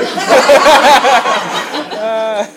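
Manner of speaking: extended laugh after a punchline; long laugh. Real, not acted. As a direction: laugh on and on at the joke.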